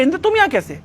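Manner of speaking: mildly acted startled question; surprised question. दिति इंद्र को देखकर चौंकी. (हल्की हैरानी से पूछना)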